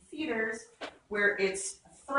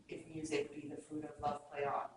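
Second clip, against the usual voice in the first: robot voice; 5 semitones lower, 12 dB quieter than usual. Retold or imitated. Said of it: "It's how you know you're talking to a robot".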